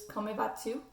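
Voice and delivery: "Comment vas-tu?" said the French way, nasal "ment" and silent final s; French pronunciation. Shown as a demonstration. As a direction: say "Comment vas-tu?" like a learner trying proper French. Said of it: "it's pronounced a little bit different".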